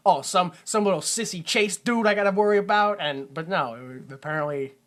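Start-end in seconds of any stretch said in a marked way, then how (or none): 0.1-3.0 a light mocking sneer at a sissy Chase. A hint of a cop sneering at a sissy partner. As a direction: lightly scoff at a little sissy guy. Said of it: "if this is any other, like, cop movie".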